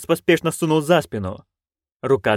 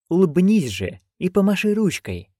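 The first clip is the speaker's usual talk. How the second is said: commanding; 6 semitones higher than usual. A narrator's reading. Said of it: "приказал герцог".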